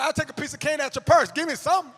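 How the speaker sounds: high, insistent begging; pleading pupil. Acted. Grown pupil begging old teacher for candy, insistent childish demand. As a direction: push for any reward at all.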